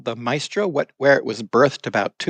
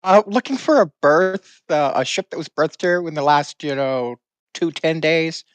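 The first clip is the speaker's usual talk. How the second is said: character voice; 5 semitones higher than usual. Acted. Plays Barry in character.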